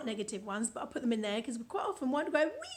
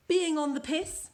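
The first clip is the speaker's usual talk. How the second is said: louder, slower phrase heading; slower, louder headline read; announced phrase; 4 semitones higher, 6 dB louder than usual. Shown as a demonstration. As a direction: call it out as the next entry. Presenting the next phrase.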